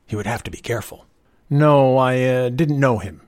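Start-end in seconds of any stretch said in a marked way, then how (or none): 1.5-3.2 hesitant, halting denial; slowly. A narrator's reading. Young man being careful with the realtor, answering slowly. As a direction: feel your way through the denial. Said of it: "he said slowly".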